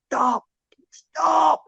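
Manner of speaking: high sharp mock yell of stop; retold scream. Drunk policeman screaming at the journalist, high frantic yell. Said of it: "someone starts screaming at me".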